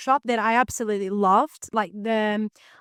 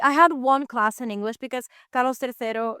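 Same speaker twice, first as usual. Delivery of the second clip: Spanish accent. Shown as a demonstration. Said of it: "great accent".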